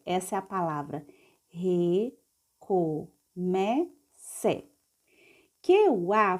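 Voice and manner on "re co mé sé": "Re, co, mé, sé" with a pause after each syllable; teacher's step-by-step reading of "Re, co, mé, sé". Shown as a demonstration. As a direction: sound out "Re, co, mé, sé" slowly, one beat each. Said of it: "vamos ler passo a passo".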